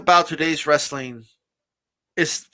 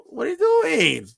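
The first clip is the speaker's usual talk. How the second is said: much higher and louder, fed up; exasperated outburst; 5 semitones higher, 3 dB louder, much slower than usual. Retold or imitated. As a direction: yell at the screen in disbelief. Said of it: "And I'm like".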